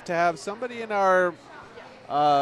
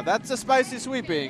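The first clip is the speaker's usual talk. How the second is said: put-on Italian-accented chef voice, higher pitch; old Italian chef; 5 semitones higher than usual. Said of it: "is the old Italian chef".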